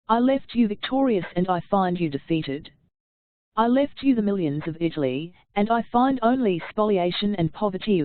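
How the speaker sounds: mild oratorical declamation with stressed contrasts; declaiming a speech. Acted. Reader declaiming Napoleon's address to the Directory, reproachful. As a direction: deliver it like a reproachful general.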